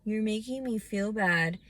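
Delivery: slow, sneering imitation of Jason; mocking quote. Mocking Jason's excuse to her, slow sneering imitation. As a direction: drag it out in mockery. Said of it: "Pussy ass little".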